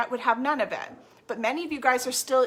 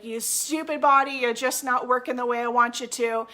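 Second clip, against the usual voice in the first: imitating a fed-up client, louder; frustrated at body; 5 dB louder than usual. Client scolding her stubborn body, irritated and loud. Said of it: "you're frustrated with your body".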